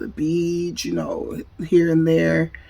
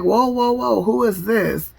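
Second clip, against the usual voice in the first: taken aback; 5 semitones higher than usual. Retold or imitated. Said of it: "I was just speechless".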